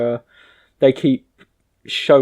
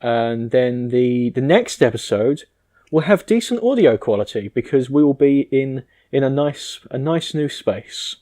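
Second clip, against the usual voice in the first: thin, metallic recording sound; tin can audio. Real, not acted. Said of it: "sound like it was recorded in a tin can".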